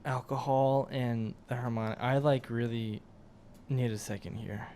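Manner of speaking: slow and fading out; weak and winded, slow; lightheaded. Real, not acted. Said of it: "really lightheaded".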